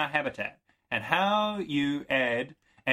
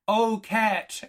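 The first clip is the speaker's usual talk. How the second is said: high, loud sung-out call; imitating the film line; 8 semitones higher, 3 dB louder than usual. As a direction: mimic the film's dramatic line. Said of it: "there's a bit when she says".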